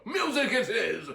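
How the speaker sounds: high laugh into the words; chuckling. A narrator's reading. Uncle Merriweather answers the aunt, chuckling. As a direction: jolly chuckle. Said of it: "chuckled Uncle Merriweather".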